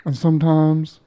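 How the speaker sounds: sexy voice. Acted. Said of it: "listen to this sexy voice".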